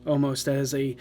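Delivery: eerie, measured scene narration; story narration. Acted. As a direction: set a haunting scene. Game master's scene setting.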